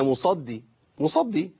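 "musaddi", the d held and thin; doubled dal. Shown as a demonstration. Teacher correcting the student, light doubled dal. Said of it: "هي دال مشددة".

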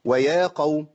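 ويا قوم recited with a held madd; tajweed recitation. Shown as a demonstration. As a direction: chant ويا قوم slowly. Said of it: "أما أقول".

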